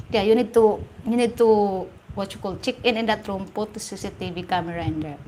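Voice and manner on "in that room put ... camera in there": giggling through the words; words bubbling with real laughter; laughing. Real, not acted. To her stream viewers, laughing at her own advice.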